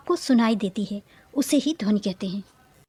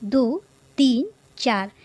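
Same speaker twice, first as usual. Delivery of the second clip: slow counting; slower than usual. Shown as a demonstration. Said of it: "चलिए गिनते हैं".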